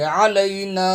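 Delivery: علینا with the final long a stretched out; held madd. Shown as a demonstration. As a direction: draw out the last vowel of علینا. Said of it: "تین second کھینچ کے پڑھیں گے".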